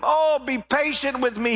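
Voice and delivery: mild begging from a kneeling servant. A narrator's reading. Kneeling servant begs his master, mildly pleading. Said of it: "he begged".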